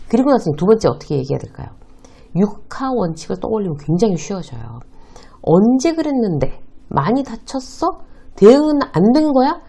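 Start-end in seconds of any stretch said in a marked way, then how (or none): 5.4-9.6 questioning boss. Retold or imitated. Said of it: "이런 질문이".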